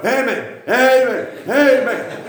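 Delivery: put-on high-pitched child's church shout; Bobby. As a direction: imitate a little one hollering like a preacher. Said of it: "He'll go".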